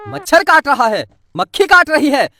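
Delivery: sarcastic mimic of "मच्छर काट रहा है"; mocking mimicry. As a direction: parrot the complaint back mockingly. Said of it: "बस यही सुनने का काम है मेरा".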